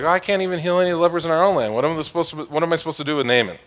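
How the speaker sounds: fast, high panicked rush; freaking out. Retold or imitated. King of Israel panicking over the letter, fast and high. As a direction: gabble it like a frightened king.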